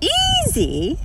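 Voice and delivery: squawking. Acted. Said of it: "squawked a pink flamingo".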